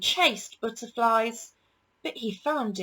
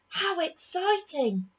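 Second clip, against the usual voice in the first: higher, slow and thrilled; excited; 9 semitones higher than usual. A narrator's reading. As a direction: savour the excitement of the idea. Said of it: "said Ben".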